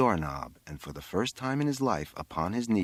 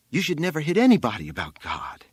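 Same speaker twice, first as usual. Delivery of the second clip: high, loud, tearful insistence; thin, crying; 6 semitones higher, 6 dB louder than usual. A narrator's reading. Exhausted boy on the roof to his mother, crying insistence. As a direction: plead it out, rising in pitch. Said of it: "it was thin and crying".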